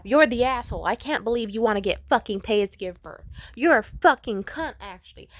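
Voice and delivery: loud, high furious ranting; mock outraged shouting; angry Reddit commenters. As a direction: scream the insults like an outraged commenter. Mocking Redditors' hostile replies.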